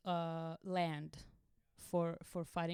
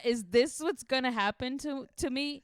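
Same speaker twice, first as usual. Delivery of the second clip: higher, louder, laughing through panic; laughing disbelief; 6 semitones higher, 8 dB louder than usual. Retold or imitated. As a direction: laugh while asking in horror. Panicked inner thoughts, laughing.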